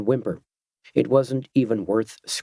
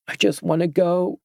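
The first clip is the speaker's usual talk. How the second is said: put-on frightened girl; 8 semitones higher than usual.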